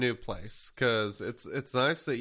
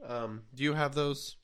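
wheezy voice; 5 semitones higher than usual. Real, not acted. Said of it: "I am wheezy for some reason".

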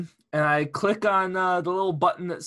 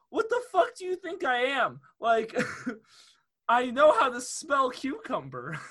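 incredulous outburst; 6 semitones higher than usual. Retold or imitated. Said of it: "I was like".

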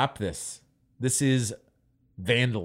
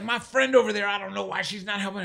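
put-on higher, breezy old woman brushing it off; sing-song old lady; 7 semitones higher than usual. Old homeless lady breezily promising to clean up, higher sing-song. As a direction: play the lady dismissing him cheerfully.

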